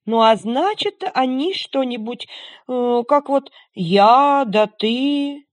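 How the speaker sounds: high, loud, slowing snowman; chattering melting snowman voice. Acted. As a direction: puzzle it out like a snowman. Snowman asks the dog.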